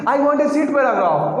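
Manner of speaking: very slow, word by word; imitating students slowly. Teacher imitating students reading, very slow. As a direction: drag it out like a struggling student. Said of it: "sound उनकी कैसे निकलती है".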